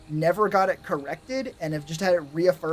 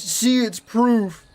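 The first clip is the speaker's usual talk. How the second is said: slow, louder, triumphant 'see'; smug gloating; 4 dB louder, slower than usual. Retold or imitated. Dickhead crowing at the calculator, slow and smug gloating. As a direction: savor it like you've won. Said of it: "if Dickhead sees that and goes".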